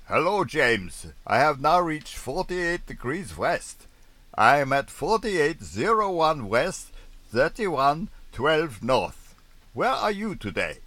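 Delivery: high, loud radio position report, slow on the figures; Soren Sophie reply. Acted. Soren Sophie reporting her position to James, high and slow. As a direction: read out the position carefully.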